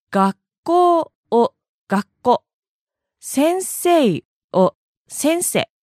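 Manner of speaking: 学校 and 先生 said Kansai style, the final long vowel cut short; 学校, 先生 with clipped endings. Shown as a demonstration. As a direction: drop the drawn-out ending of 学校 and 先生, slowly. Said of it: "最後の言葉を省略するのです".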